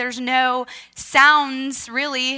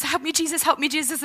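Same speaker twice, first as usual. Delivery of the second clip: higher, urgent repeated plea; repeated plea in prayer; 5 semitones higher, faster than usual. Retold or imitated. Injured swimmer praying as she swims, urgent plea. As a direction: plead it over and over, without shouting. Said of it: "I was praying in the Holy Spirit".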